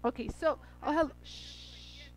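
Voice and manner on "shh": unvoiced hush to someone nearby; whispered shush. Real, not acted. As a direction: shush them under your breath. Hushing off camera.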